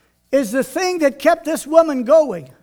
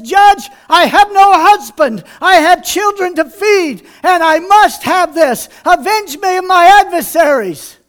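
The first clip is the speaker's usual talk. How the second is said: louder, higher pleading cry; passionate plea; 3 semitones higher, 4 dB louder than usual. Acted. Widow crying out to the judge, loud pleading.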